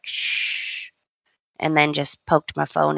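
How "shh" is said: whispered shush. Pretend. Shushing her sister on FaceTime in a whisper. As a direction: hush the caller. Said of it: "been like".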